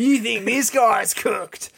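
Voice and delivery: slow, high Australian jeer; mock a mate in Aussie; Australian accent taunting. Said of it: "An Australian accent".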